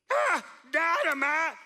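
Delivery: delighted gasp at the find; sudden excited discovery; surprised. Acted. Finding dynamite in the bag.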